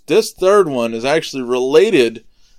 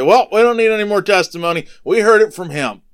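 loud, higher acted declaration; raised-voice outburst to fellow accusers; indignant verdict; 8 semitones higher, 7 dB louder, faster than usual. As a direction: play the council declaring the case closed. Council reacts to the admission.

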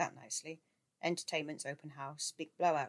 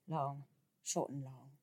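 slow, each beat marked; metrical stress; 4 dB quieter, slower than usual. A narrator's reading. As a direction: scan it as long short long. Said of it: "A perfect cretic".

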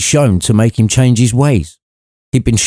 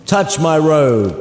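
spirit's command; 6 semitones higher, slower than usual. Acted. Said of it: "came the command back".

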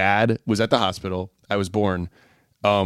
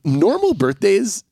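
old dad impression; 11 semitones higher than usual. Imitating dad's routine.

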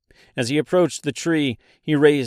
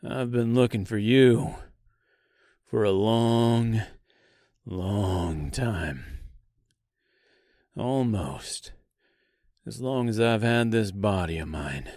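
put-on slight southern accent; 3 dB quieter than usual. A narrator's reading. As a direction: draw out the words with a southern twang. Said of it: "he replied with a slight southern accent".

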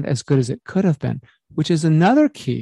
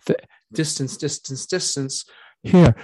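fading into distance; 4 dB quieter than usual. Shown as a demonstration. Coach demoing voice fading with mic distance. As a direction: drift off-mic on each distance. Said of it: "depth disappears over distance".

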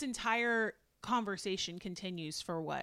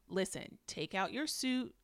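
very calm. Retold or imitated. Retelling Jasmine instructing her husband, very calmly. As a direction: spell it out calmly, with pauses between steps. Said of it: "Jasmine very calmly says".

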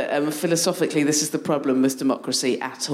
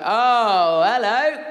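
pleased surprise; 5 semitones higher, 4 dB louder, much slower than usual. Retold or imitated. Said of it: "he was like".

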